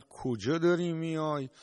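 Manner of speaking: mock yelling at an intruder, rising to the end; retold angry shout. Hostile farmer yelling at the Imam on his land, mock shout. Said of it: "داد کشید، فریاد زد".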